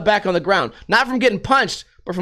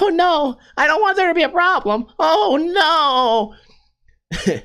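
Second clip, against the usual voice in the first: high, whiny mock fear, much higher; mock scared; 7 semitones higher, slower than usual. Mocking a biker's threat with a fake scared whimper. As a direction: play the frightened coward backing off. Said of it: "What am I, I'm gonna run away?".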